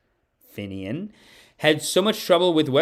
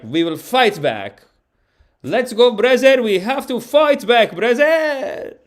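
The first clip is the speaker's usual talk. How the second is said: put-on loud, high rallying cry in an Arab accent; rally the brothers with a hammed-up Arab accent; 9 semitones higher, 5 dB louder, slower than usual. Reluctant revolutionary urging a fight back, mock Arab accent. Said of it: "more of an Arab accent".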